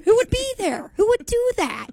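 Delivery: high-pitched, playfully outraged questions; mock indignation. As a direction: demand an answer in mock outrage.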